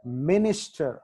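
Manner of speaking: మినిస్టర్ with the stress on "min"; మినిస్టర్, strong start, falling end. Shown as a demonstration. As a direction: hit the first syllable of మినిస్టర్. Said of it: "ఎం దగ్గర stress mark".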